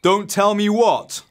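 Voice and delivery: loud, slow, high-pitched demand; booming. Acted. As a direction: boom it out as the father arriving. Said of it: "boomed a voice on the air".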